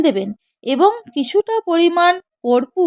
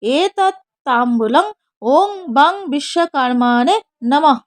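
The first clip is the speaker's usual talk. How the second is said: mantra recitation. Shown as a demonstration. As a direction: intone it like a priest at puja. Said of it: "বলবেন".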